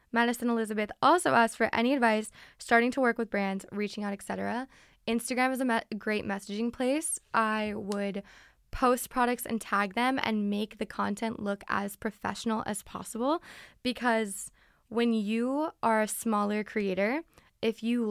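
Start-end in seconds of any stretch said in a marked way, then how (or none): none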